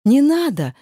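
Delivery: high, loud desperate plea; loud begging cry as he torments her; pleading cry. A narrator's reading. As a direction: beg him to stop, crying out. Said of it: "взмолилась я".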